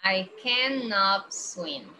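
slow, cannot held long; slow careful English. Shown as a demonstration. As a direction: model it slowly for the class. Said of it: "que él no puede nadar".

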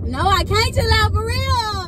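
high-pitched, bursting protest; excited refusal. Real, not acted. Answering her own calming, excitedly refusing. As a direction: burst out, unable to contain yourself.

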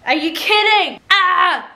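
high, loud, thrilled disbelief; thrilled squeal. Real, not acted. Gushing to viewers about her new sandals, high excited squeal. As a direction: squeal with delight over the sandals.

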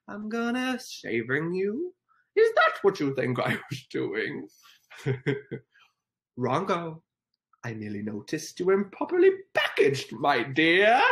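a light, slowed Grinch sneer; lightly voiced Grinch, teasing; Grinch impression. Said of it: "The Grinch impression?".

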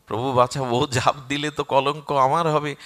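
firmer, anxious repeated appeal; urgent plea. Acted. Hanuman fears the blame for the death, urgent plea. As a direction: press your lord to step in.

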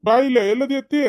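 high, loud call across the house. Acted. Young man calling his aunt out of the house, loud call. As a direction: call her out to you.

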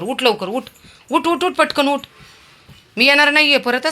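high, loud repeated get up; insist, losing patience; impatient calling. Real, not acted. Telling Veer to get up or she leaves, loud impatient calls.

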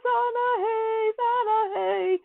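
high cheering Hosanna; mock crowd cheer. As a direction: cheer like the crowd greeting Jesus. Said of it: "everybody was screaming and yelling".

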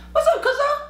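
squeaky mock greeting; high friendly greeting. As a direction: toss off a high "what's up".

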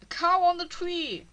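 high, loud burst of surprise at a cow in a tree; surprised shout. Real, not acted. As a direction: blurt it out, amazed.

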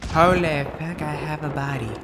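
shocked. Acted. Shock at new body.

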